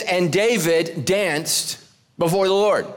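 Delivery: slow, deliberate reading; scripture reading. Shown as a demonstration. Pastor reading the note verse aloud, slow and deliberate. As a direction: read the verse out slowly. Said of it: "let's begin with our notes".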